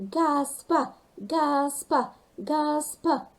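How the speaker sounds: a crowd chanting his name; rally behind the hero; cheering. Acted. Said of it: "started to cheer".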